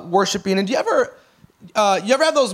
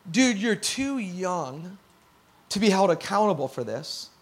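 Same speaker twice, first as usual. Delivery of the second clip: heartbroken; 3 semitones lower, 6 dB quieter than usual. Real, not acted. Heartbroken over the three-year-old.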